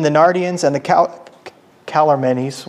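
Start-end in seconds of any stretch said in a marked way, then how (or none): 1.8-2.6 "Calormenes" said as KAL-er-MEN-eez, lower; unsure pronunciation. Real, not acted. Speaker giving up on the name, offhand "Calormenes" as KAL-er-MEN-eez. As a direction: stumble onto "Calormenes" with an "-eez" ending.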